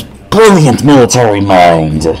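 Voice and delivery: slow, loud, overblown praise; sarcastic grandeur. Acted. Narrator mocking Adam's intellect, sarcastic grandeur.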